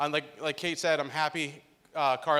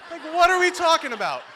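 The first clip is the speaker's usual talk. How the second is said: retold disbelief; 11 semitones higher, 6 dB louder than usual. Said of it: "I'm like".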